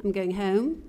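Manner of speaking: South Philly "home" with a nasal, rounded o, rising at the end; "I'm going home" in a light South Philly accent; South Philadelphia accent. Shown as a demonstration. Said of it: "Some of the sounds that ... epitomize that region of Philadelphia is you say".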